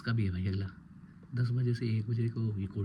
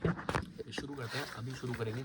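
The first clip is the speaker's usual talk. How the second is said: breathy near-whisper, much softer; hushed recreation; 6 dB quieter than usual. Acted. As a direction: murmur it as if acting out the scene. Recreating sitting down to study. (फुसफुसाकर धीमे से)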